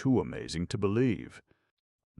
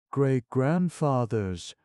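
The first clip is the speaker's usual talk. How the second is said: much higher, louder, slow astonished cry; choked exclamation; 10 semitones higher, 7 dB louder, slower than usual. A narrator's reading. Clown astonished at Crunch, choked cry. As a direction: choke on the word in disbelief. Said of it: "choked the clown".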